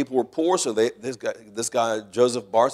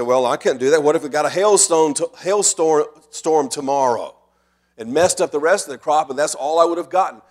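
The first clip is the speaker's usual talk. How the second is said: mock protest, raised and louder; worried objection; 4 semitones higher, 5 dB louder than usual. A farmer fears losing the crop, mildly hammed-up protest. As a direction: act out a doubter's what-if complaint.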